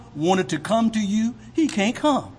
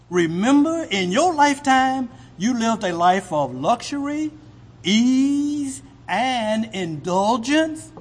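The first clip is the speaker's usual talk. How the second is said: Abraham rebuking; 5 semitones higher than usual. Acted. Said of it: "this is Abraham's reply".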